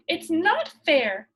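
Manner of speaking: slow, loud and stern; a stern child's complaint, drawn out and loud. A narrator's reading. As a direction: lay down the law, slowly. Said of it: "said Pippi sternly".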